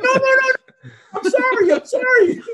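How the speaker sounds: high, loud, apologizing through laughter; laughing apology. Retold or imitated. Speaker apologizes to the cop, laughing high and loud. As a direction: beg off while cracking up. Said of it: "and I'm like".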